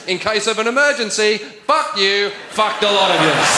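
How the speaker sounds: lightly voiced flight-attendant announcement turned rude; mock safety demonstration. What deaf passengers see on a flight, mock safety announcement. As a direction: deliver the insult like official cabin instructions. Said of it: "what you see as the safety demonstration is".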